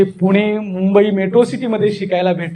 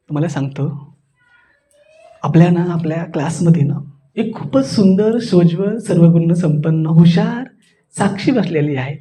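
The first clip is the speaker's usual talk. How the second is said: measured, serene low telling; calm; 4 semitones lower than usual. Shown as a demonstration. Speaker introduces Sakshi to the class, calm and composed. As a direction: present her gently and evenly. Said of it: "शांत रस".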